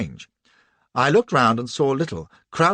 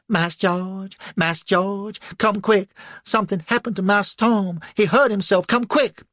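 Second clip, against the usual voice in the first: much higher, louder frantic cry for help; sudden alarm; 9 semitones higher, 5 dB louder than usual. Acted. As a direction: shout for George in panic, much higher. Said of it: "Cassie's voice in sudden alarm".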